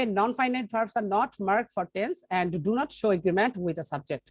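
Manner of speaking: slow, deliberate dictation pace; slow reading. Shown as a demonstration. Teacher dictating a grammar rule to the class, slowly. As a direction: read the rule out slowly, word by word. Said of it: "teacher reads the rule aloud".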